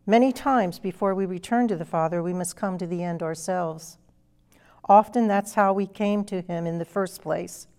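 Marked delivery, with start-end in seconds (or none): 2.2-4.0 whispered, almost breathless, as a solemn aside; hushed whisper. Real, not acted. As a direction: drop to a whisper to let it sink in. Preacher drops voice for emphasis.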